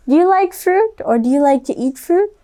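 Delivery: put-on playful kid-show question; excited question. Shown as a demonstration. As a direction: ask the children eagerly. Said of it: "asking young viewers".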